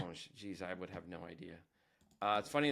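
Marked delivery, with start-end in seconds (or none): 0.0-0.3 orange echoed with a French zh ending; French pronunciation. Retold or imitated. Teacher echoing the played French word, French pronunciation. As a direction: repeat orange after a French recording. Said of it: "how the French say orange".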